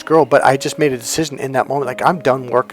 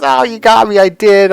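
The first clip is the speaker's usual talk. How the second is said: much higher, louder, giggly put-on girl voice; playful girl confessing; 8 semitones higher, 7 dB louder than usual. Blonde admits she bumped him on purpose, high and giggly. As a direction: caught out and loving it.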